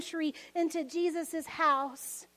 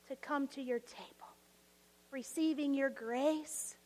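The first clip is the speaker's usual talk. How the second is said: prayer. Real, not acted. Leads closing prayer.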